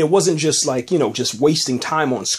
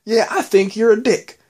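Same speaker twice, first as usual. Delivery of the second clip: higher-pitched mock yell; retold yell; 9 semitones higher, 4 dB louder than usual. Norma insults the councilman into the mic, mock yelling. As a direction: imitate an angry outburst, only slightly louder. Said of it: "and she yells".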